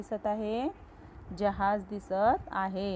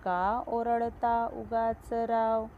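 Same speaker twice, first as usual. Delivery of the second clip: poem recitation; slower than usual. Acted.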